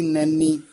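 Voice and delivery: ਨੈਨੀ with a lightly doubled second n; slightly tightened. Shown as a demonstration. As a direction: press a little on the middle n of ਨੈਨੀ. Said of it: "ਥੋੜ੍ਹਾ ਜਿਹਾ ਕਸ".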